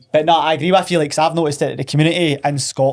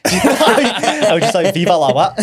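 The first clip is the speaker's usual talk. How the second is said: laughing hard, pitched up; 5 semitones higher, 5 dB louder, much slower than usual. Real, not acted. Friend joking about failed holiday French, laughing. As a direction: tell it through real laughter.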